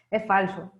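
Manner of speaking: slow, amused "Es falso" said through a laugh; laughing repeat. Real, not acted. Teacher repeats her point to students, chuckling.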